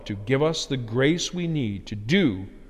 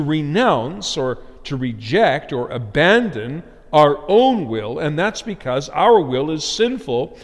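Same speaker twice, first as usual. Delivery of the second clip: raised, insistent pulpit delivery; emphatic preaching; 4 semitones higher, 6 dB louder than usual. Real, not acted. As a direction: drive each point home to the congregation.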